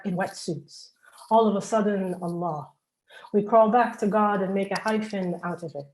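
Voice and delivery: firm, cadenced poetry reading; strong line openings that fall away at the ends; poem recital. Acted. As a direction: recite the lines as a building litany. Reads own poem aloud.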